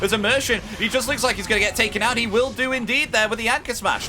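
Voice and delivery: excited play-by-play. Real, not acted. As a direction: call the takedown with mounting excitement. Commentator calls a kill live.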